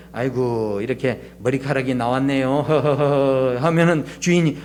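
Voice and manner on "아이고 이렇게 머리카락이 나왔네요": acting out a too-nice diner; polite, meek customer. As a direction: gently point it out with a little chuckle. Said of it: "주인에게 이제 공손히 이야기해 주는 거죠".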